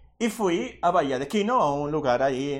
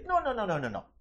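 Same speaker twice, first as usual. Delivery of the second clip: dismissive; 4 semitones higher, faster than usual. Real, not acted. Preacher cuts off a numerology theory, dismissive falling noes. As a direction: wave the idea away, fading as it drops.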